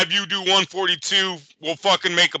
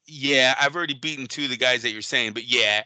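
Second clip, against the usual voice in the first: lightly voiced Tank, rushed and offhand; a mild mock of a boxer brushing off names; Tank's funny way of talking; 3 semitones lower than usual. Host mildly imitating Tank answering a reporter, rushed. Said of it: "'cause Tank kinda talks funny".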